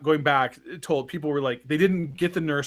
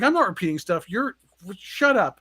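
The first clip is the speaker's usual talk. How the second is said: higher-pitched mock indignation; retold annoyance; 5 semitones higher than usual. Concussed teen to friends saying he repeats himself, mock mad. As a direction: imitate a mad, sputtering denial. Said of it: "and then I'm getting mad".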